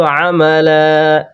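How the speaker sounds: আমালা with a long stretched first a; drawn-out amala. Shown as a demonstration. Teacher modelling আমালা with a long first vowel. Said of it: "Kaif ভাই বলেন তো".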